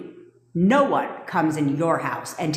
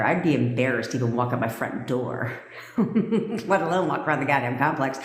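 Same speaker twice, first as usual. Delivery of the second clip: laughing retelling; 3 semitones lower than usual. Retold or imitated. Laughs mid-quote at her old remark.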